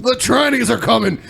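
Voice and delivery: laughing through a mock warning; repeating the line while cracking up; laughing mock alarm. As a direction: chuckle out the alarm. Mocking Alex Jones quote, laughing.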